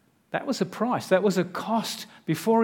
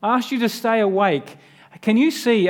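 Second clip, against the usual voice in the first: exasperated disbelief; 4 semitones higher than usual. Retold or imitated. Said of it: "And he's like".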